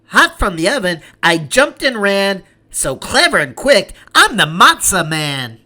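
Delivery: lightly voiced cheeky little matzah man, sing-song. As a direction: brag it like a proud little runaway. Boastful cookie-style chant.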